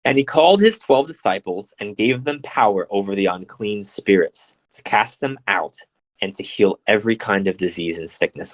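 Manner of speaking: measured reading from a holy text; scripture reading. Acted. Reading the gospel to listeners, measured scripture reading. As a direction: read it out evenly, phrase by phrase.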